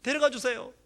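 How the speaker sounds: put-on high, small boy's asking; timid child's plea. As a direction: repeat it like a shy child begging. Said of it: "그렇게 했던 거예요". (높은 아이 같은 부탁)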